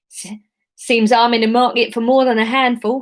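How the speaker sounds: a hint of jovial Cockney; jovially Cockney; light Cockney. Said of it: "let's go Cockney".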